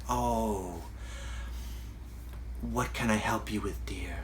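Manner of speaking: hushed, near-whispered gentle kindness; soft breathy hush, soothing a troubled feeling; Thich Nhat Hanh's soft voice. Retold or imitated. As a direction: whisper it tenderly, as if to a hurting child. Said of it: "soft way of speaking".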